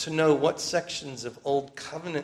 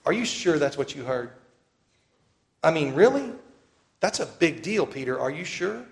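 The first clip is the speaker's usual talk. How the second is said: doubting Jews; 2 semitones higher than usual. Retold or imitated. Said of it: "the Jews would say to Peter".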